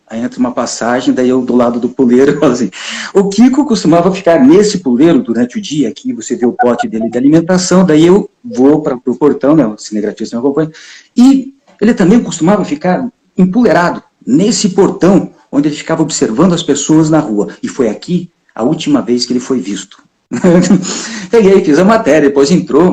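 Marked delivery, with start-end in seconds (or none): 3.1-7.9 mock-serious news reporter read; TV report stand-up. Reporter beside the perch reads the parrot story to camera as a grave news piece. 11.2-20.1 mock-serious news reporter read; TV report stand-up. Reporter beside the perch reads the parrot story to camera as a grave news piece.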